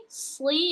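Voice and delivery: sli said with a thick consonant; heavy emphatic s in sli. Shown as a demonstration. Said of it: "yang versi tebal".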